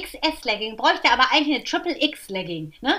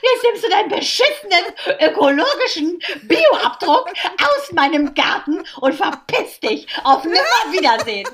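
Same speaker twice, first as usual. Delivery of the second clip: a half-laughing fake blowup at a rude guest; laughing mock rant; 3 semitones higher, 4 dB louder than usual. Throwing a rude friend out of her garden, laughing mock rant.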